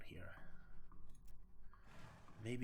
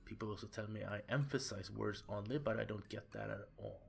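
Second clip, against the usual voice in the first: whispered, sly excuses; creepy whisper. Acted. Chuck explains his lisp.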